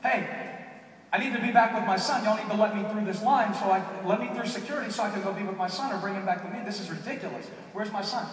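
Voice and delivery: insist, escalating toward a yell. Retold or imitated. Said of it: "raising my voice and escalating".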